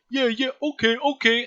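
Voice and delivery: high-pitched, obedient simple creature; eager lackey creature. Acted. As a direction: agree eagerly like a dim henchman. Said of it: "He's like".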